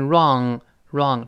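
"wrong" with silent w, curled-tongue r and back ng. Shown as a demonstration. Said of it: "W不发音，R勾舌头".

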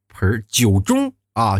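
盆儿 said with a curled er and 酒盅 drawn out slowly; careful exam-style erhua on 盆儿 and 酒盅; erhua words. Shown as a demonstration. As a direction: slowly stretch out 盆儿 and 酒盅 like a test taker. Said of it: "我就觉得".

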